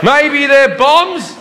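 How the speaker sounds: high, very slow unsure question; slow nervous guess. Retold or imitated. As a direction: drag it out nervously, half laughing.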